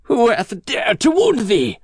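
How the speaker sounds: high, slow outraged giant; drawn-out indignant demand; angry cry. A narrator's reading. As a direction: cry out slowly as the enraged giant. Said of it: "cried the giant".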